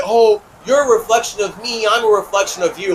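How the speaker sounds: high, sugary mock of a spiritual friend; mocking parody. Mocking friends who call him their reflection, high and sugary. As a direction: sweetly parrot their oneness talk. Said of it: "When you're like".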